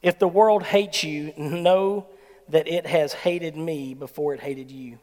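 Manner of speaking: solemn slow scripture reading. Shown as a demonstration. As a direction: let each word of the verse land slowly. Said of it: "it says this".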